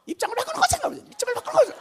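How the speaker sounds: very high, hammed-up pleading; demanding prayer cry. Believer whose prayer goes unanswered, high mock pleading. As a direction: mimic an impatient believer crying to God. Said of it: "또 뭐라고 말하는 거 아니?".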